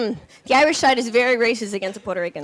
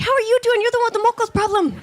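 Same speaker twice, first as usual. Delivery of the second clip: higher, fast sassy comeback; mocking reply; 9 semitones higher, faster than usual. Snapping back at the boyfriend, higher fast sassy voice. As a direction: fire back with a laughing jab. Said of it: "I'm like".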